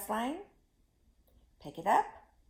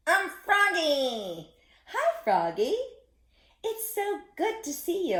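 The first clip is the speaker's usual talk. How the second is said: higher, louder cheerful frog puppet voice; Froggy the frog; 6 semitones higher, 9 dB louder than usual. Acted. Froggy greeting the children, cheerful and high. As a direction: bounce along as a friendly frog.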